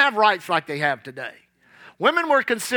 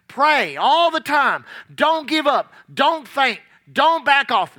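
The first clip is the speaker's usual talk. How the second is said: fervent exhortation; 4 semitones higher, slower than usual. Acted. Preacher exhorting congregation.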